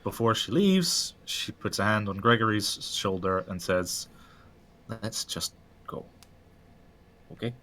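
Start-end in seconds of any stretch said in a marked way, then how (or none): 4.9-7.5 hushed urgent whisper. Acted. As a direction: whisper it so they won't hear. Neve urging quietly to leave.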